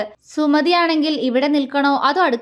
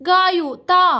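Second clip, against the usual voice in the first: higher and louder playful insistence; mischievous demand; 6 semitones higher, 4 dB louder, much slower than usual. A narrator's reading. Husband playfully demands a kiss in the dining hall, mischievous. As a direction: tease her for a kiss, cheeky and pushy. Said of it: "അവൻ വീണ്ടും കുറുമ്പോടെ പറഞ്ഞു".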